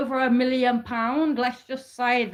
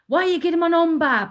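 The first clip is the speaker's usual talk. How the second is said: imitating his angry phone rant, fast and higher; retold outburst in a hurried, raised pitch; going ballistic; 4 semitones higher, faster than usual. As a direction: fire it off as his irate demand. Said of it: "he starts going ballistic on the phone".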